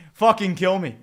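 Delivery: shouted then a high laugh; despairing shout into laughter. Real, not acted. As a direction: cry out and crack up.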